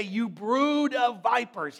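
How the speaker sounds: slow, loud, harsh denunciation; harsh rebuke. Retold or imitated. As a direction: lash out at the crowd slowly. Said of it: "He spoke very harshly".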